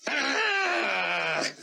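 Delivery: high, sharp scream. Acted. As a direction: scream bursting through the crowd. Gunman's scream in the crowd.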